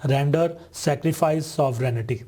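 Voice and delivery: रेंडर, सैक्रिफाइस, सॉवरेनिटी each said carefully as ren-ḍər, sek-ri-fais, sov-re-ni-ṭi; pronunciation model: रेंडर as ren-ḍər, सैक्रिफाइस as sek-ri-fais, सॉवरेनिटी as sov-re-ni-ṭi; pronunciation demo. Shown as a demonstration. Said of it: "इसकी pronunciation इस तरह से होगी".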